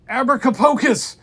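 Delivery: high, very loud spell cry; shouted spell. Acted. Kid battling trolls, very loud shouted spell.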